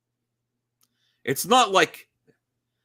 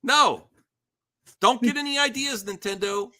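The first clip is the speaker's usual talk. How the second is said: heroic rallying shout; 10 semitones higher than usual. Acted. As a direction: warn Nintendo like a wrestler. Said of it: "wrestling promo".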